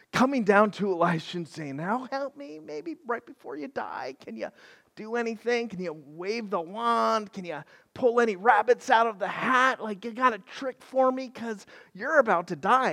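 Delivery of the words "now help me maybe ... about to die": soft, lazy mock plea; half-hearted plea. So-so king half-heartedly asking the dying prophet for help. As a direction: mumble it like you barely care. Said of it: "this half-hearted effort".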